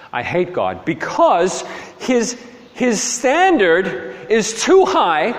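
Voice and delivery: rising, pleading confession of hopelessness; anguished cry. Acted. Luther answering a friend, in rising anguish.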